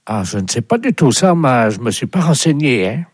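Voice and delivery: lightly put-on fisherman voice; pretend fisherman. Fake fisherman answering the animal society, put-on voice. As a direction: play the uninformed fisherman. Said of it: "Je vais vous le passer".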